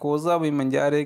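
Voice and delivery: very slow, each syllable clear; slow model sentence. Shown as a demonstration. Teacher reading the Italian phrase for students, very slow. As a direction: read it out slowly for learners to repeat. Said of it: "मुझे इस तरह पूछता है".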